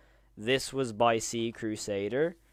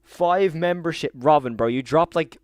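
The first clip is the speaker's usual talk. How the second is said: excited; 3 semitones higher, 6 dB louder than usual. Real, not acted. Surprise donation flood on stream.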